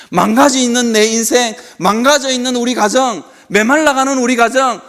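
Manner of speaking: fervent preacher's plea; beseeching prayer. Acted. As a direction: implore God, phrase by phrase. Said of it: "그렇게 기도하는 것입니다".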